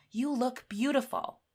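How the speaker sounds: lifted, excited "You look beautiful"; excited exclamation. Shown as a demonstration. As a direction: say it with an exclamation mark. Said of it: "we're expressing excitement".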